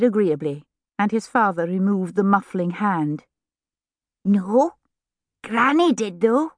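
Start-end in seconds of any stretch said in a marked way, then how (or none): 4.2-6.5 put-on high child's voice, rising at the end; agreeable little boy. A narrator's reading. Little boy sets his mother straight, high and artless. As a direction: correct mother innocently as a small boy.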